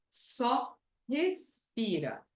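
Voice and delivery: slow, gentle "Só respira"; reassuring. Shown as a demonstration. Therapist calming a nervous patient, gentle and slow. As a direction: soothe the patient into breathing.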